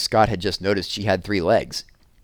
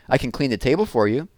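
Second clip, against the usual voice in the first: put-on higher, eager little-girl voice; young girl Jessie; 5 semitones higher than usual. Little sister Jessie eagerly offers her lockbox to her brother, higher girl voice.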